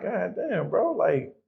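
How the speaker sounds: shocked sympathy. Retold or imitated. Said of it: "So I'm like".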